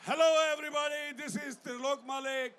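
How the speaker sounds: loud, fast greeting; big street greeting; calling out to crowd. Real, not acted. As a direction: hail the whole square. Greeting a crowd in Times Square.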